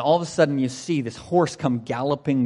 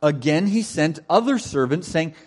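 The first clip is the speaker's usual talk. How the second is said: measured, emphatic Bible reading; scripture reading; 3 semitones higher than usual. Acted. Preacher reads the parable to the congregation, measured and emphatic.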